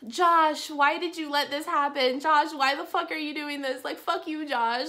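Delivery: high-pitched retold rant at a boyfriend; mock angry screaming. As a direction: imitate a mad woman yelling, without full volume. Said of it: "She's, like, screaming at her boyfriend".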